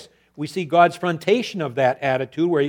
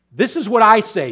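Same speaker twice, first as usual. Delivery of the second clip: louder and higher; loud take; 6 semitones higher, 8 dB louder than usual. Shown as a demonstration. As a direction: hit "I" hard. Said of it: "loud take, contrasted".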